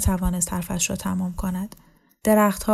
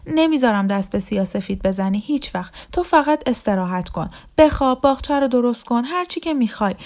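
lightly voiced, higher-pitched begging; pleading; 4 semitones higher than usual. Leila begging her friend not to leave her, pleading. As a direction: plead insistently, rising as the promises pile up.

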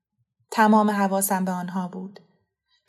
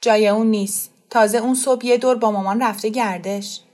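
serious; 5 dB louder than usual. Acted. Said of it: "اسی با جدیت گفت".

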